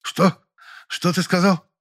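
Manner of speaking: высоко, потрясённо; ошеломлённо переспросить. A narrator's reading. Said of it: "аж закашлялась". (актриса ошеломлена новостью)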